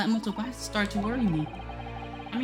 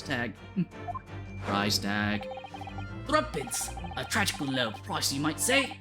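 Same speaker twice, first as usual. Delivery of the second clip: theatrical detective voice; 2 semitones higher than usual. Acted. Voices game dialogue.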